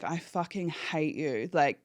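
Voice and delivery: muttered, fierce swearing through the effort; low fierce swearing. Retold or imitated. Swearing at the dying man while doing CPR, low and fierce. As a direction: curse at him under your breath, desperate. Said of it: "I'm swearing in his face".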